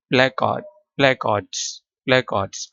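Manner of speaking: "प्लेकार्ड्स" with a hat vowel and silent R. Shown as a demonstration. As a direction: repeat "प्लेकार्ड्स" carefully, leaving the R unsounded. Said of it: "आर इसमें silent है".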